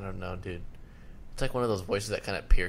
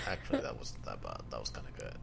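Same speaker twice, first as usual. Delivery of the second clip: grudging reconsideration; 10 semitones lower, 12 dB quieter, faster than usual. Retold or imitated. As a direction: mumble a reluctant change of mind, imitating a friend. Retold grudging later change of mind.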